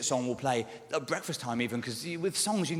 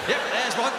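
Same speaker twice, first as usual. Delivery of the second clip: imagined spotter; 8 semitones higher, 5 dB louder than usual. Pretend. Imagined spotter noting people down.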